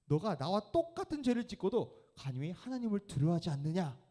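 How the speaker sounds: high, loud scolding; stern rebuke. Acted. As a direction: rebuke the other robber sharply. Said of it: "꾸짖어서 이르되". (동료 강도를 꾸짖는 강도, 높고 큰 호통)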